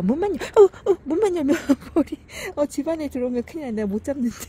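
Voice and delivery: panicking as a bee comes in the door; startled fuss over a bee. Real, not acted. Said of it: "호들갑이다". (벌이 들어와 호들갑 떠는 높고 큰 목소리)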